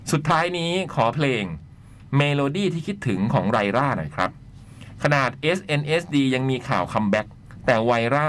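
measured, articulated read-aloud; letter reading. Acted. Host reading a listener's letter on air, letter-reading voice. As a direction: read it out in phrases with pauses.

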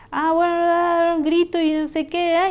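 loud, high, drawn-out exasperated ah bueno; explosive outburst. Acted. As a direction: blow up at someone who won't listen. Acting out an explosive reaction. (arrebato explosivo, fuerte y agudo)

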